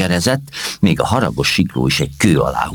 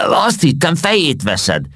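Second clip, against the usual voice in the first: relieved hiccup; 12 semitones higher than usual. Acted. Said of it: "csuklott megkönnyebbülten Mimó".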